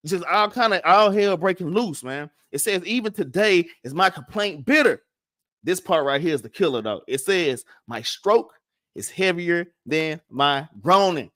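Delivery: ordinary talk, nothing marked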